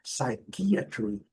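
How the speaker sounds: very slow "psychiatry" as sai-KI-a-tri; segunda sílaba forte. Shown as a demonstration. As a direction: stretch out "psychiatry" with "ki" in the middle. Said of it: "a segunda sílaba é a sílaba forte". ("psychiatry" bem devagar, soando "sai-qui-atri")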